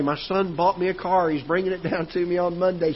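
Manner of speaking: mother proudly telling neighbours about the car, lightly voiced and excited; proud mom. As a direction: show off the news like a delighted mother. Mom bragging to everybody.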